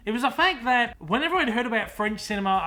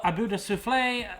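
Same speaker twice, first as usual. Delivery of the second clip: French accent; 2 semitones higher than usual. Shown as a demonstration. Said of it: "Apologies for my little French accent".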